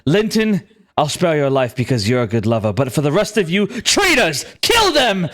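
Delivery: commanding voice rising to an order; stern commander. Acted. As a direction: pass sentence, then order the kill. Glue condemns the party.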